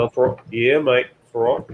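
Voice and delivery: put-on jokey Australian accent on mate; playful Australian accent, casual. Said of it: "I got the best Australian accent".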